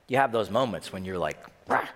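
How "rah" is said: a short gruff mock growl; tough growl. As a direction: grunt like a closed-off tough guy. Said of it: "tough, closed off".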